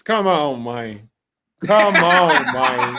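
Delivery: "man" drawn out as "mayne"; drawled "man". Real, not acted. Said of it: "Not the money".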